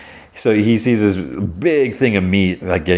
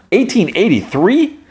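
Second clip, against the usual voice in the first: eighteen eighty-three? in a much higher, rising voice; high incredulous echo of the year; stunned echo; 13 semitones higher, 4 dB louder than usual. Real, not acted. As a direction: repeat the date in disbelief. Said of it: "That's crazy".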